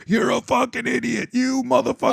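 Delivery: high, mocking imitation of a furious friend; mock angry rant. Friend mocking an angry Trump supporter, high mock rage. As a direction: play the raging Trump fan swearing. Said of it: "he starts fucking going off on me".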